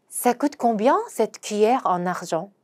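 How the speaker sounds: very slow, each syllable clear; slow French teaching read; slow demo pronunciation. Shown as a demonstration. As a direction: spell out "Ça coûte combien" slowly for learners. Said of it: "요거 한번 발음을 해보도록 하겠습니다".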